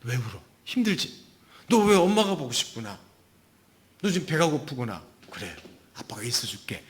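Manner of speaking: gentle soothing questions, hushed at the end; quiet comforting parent. Acted. Dad comforting a crying child, gentle reassurance. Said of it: "조용히".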